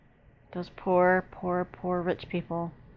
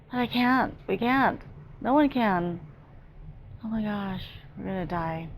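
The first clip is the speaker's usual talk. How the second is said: frightened; 3 semitones higher than usual. Real, not acted. Watching people fall into icy water.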